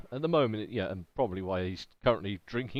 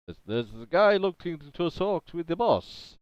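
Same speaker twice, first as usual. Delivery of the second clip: put-on Transylvanian accent; 7 semitones higher, 4 dB louder than usual. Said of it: "in the Transylvanian accent".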